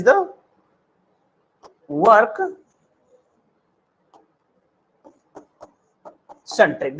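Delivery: slow, word by word with long pauses; teacher pausing before each word so students can follow; slow dictation. Shown as a demonstration. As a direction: spell it out slowly for the class, pausing between words. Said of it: "teacher dictates slowly, word by word".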